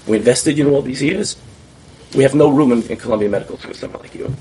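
a stern doctor's scolding, acted out; scolding the student in front of the patient, loud and stern; retold scolding.

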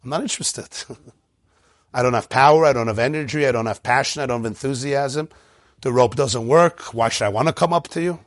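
low, weary voice with no energy; listless student. Pretend. A student telling the teacher he has no energy, weary and low. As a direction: drag it out, low and drained. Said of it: "You might say".

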